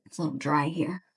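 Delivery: talking between sips of water; sipping water. Real, not acted. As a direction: talk right after a sip. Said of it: "Sorry for the slurping".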